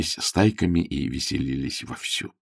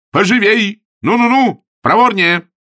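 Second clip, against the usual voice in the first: very high, loud hurrying; urging shout; 13 semitones higher, 7 dB louder than usual. Acted. Augustine hurries the landlady on with high shouts. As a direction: chase her along.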